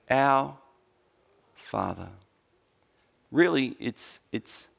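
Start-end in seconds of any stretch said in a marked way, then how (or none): 0.1-2.1 prayer opening. Shown as a demonstration. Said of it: "teach you how to pray like this".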